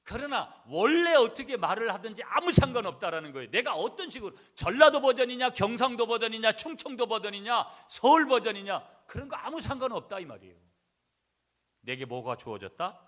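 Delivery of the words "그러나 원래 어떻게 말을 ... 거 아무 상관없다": loud, high, hammering sermon list; forceful preaching. Acted. Preacher telling congregation dialect does not matter, forceful preaching. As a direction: ring out each item at full force.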